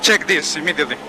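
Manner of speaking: urgent command. Real, not acted. Driver urgent demand.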